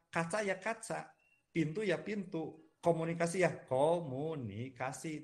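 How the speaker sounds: "Kaca ya kaca" with every syllable even, no word stressed; even, unstressed word list; flat stress demo. Shown as a demonstration. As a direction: say each word level, no stress. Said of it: "dari stresnya juga kita datar".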